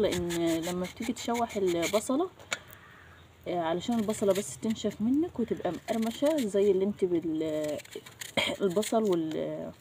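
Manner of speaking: talking with a blocked nose; stuffy nose. Real, not acted. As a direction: speak through a head cold. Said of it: "معلش عندي برد".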